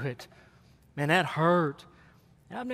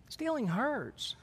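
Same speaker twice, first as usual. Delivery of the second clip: solemn pronouncement; 6 semitones higher, 8 dB quieter, much slower than usual. Acted. Preacher to congregation, slow and hushed. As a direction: let each word hang, heavy and quiet.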